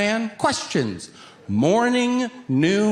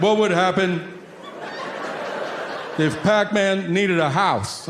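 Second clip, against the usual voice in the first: put-on higher, eager kid voice; kid's question; 4 semitones higher than usual. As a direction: ask it like an earnest little boy. Son asks Pac-Man question.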